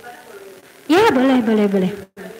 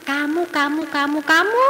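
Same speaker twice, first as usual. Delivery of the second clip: blaming tone; 2 semitones higher than usual. Shown as a demonstration. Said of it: "selalu pakai you message".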